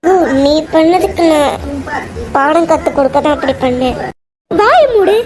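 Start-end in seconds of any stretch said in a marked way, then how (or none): 4.5-5.1 angry. Acted. Wife snaps shut up.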